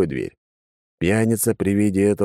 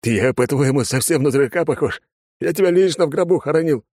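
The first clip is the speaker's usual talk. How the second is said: put-on high, agitated drunk father; 8 semitones higher, 3 dB louder than usual. Father accusing son.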